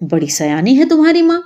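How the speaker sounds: amused, smiling approval. A narrator's reading. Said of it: "مسکرا کر کہا".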